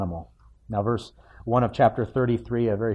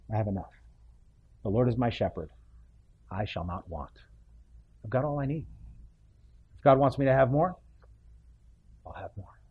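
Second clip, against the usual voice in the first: soft, hushed words of contentment; contented quiet; 5 dB quieter, faster than usual. Acted. A believer looks at their life and says they have enough, softly. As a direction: say it gently like a settled prayer.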